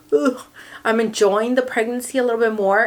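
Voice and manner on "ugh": groan of discomfort. Real, not acted.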